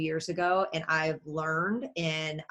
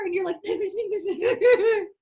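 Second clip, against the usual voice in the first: laughing deflated; 13 semitones higher, 5 dB louder, much slower than usual. Real, not acted. Deflated at a rival's win.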